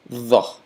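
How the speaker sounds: Tho with a voiced th as in the. Shown as a demonstration. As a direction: Tho with the tongue between the teeth, voiced. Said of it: "T H sound as in the English word the".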